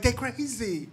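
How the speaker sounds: high, amazed they crazy; a kid thrilled by the news; amused teen reaction. Retold or imitated.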